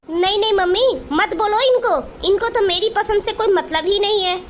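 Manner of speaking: sister-in-law yelling at bhabhi in front of mom; shouting at sister-in-law. Acted. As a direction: snap back in a hurt, angry tone. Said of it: "चिल्लाओ मत".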